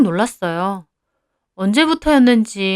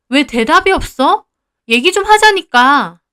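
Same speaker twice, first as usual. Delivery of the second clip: higher, pushing for an answer; angry demand; 5 semitones higher, 4 dB louder than usual. Acted. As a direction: press him hard to talk. Boyfriend ignores her in quarrel.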